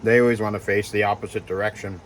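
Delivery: talking while chewing; mouth full. Real, not acted. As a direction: speak through a mouthful of granola. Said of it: "I'm still chewing on granola".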